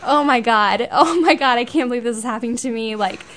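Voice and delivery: fast, panicked mock horror; horrified teen. Daughter mimicking her horror at dad's car. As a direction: replay your mortified middle-school self. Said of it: "and I was like".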